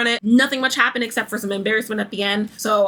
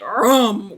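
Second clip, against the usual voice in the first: imitated table rumble. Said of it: "with the table".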